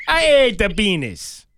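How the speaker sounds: high, loud mock Jamaican accent with laughter; hammed-up Jamaican accent. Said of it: "Jamaican voice".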